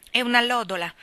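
brief. Acted. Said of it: "disse Mary Poppins brevemente".

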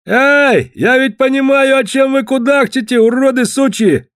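high, loud angry yell; yelling down from the wall. A narrator's reading. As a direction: bellow insults down at the enemy. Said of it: "Рыжий Руди заорал вниз".

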